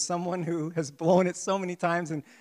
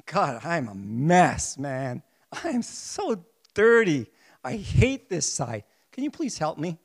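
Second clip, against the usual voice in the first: genuine humble prayer; 3 dB louder, slower than usual. Pretend. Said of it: "if it was genuine from the heart".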